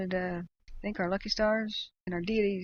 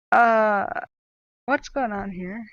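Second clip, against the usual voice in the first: baffled; 2 semitones higher, 9 dB louder, much slower than usual. Retold or imitated. Streamer retelling a chat accusation, baffled and slow. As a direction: sound lost and thrown. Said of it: "And I'm like".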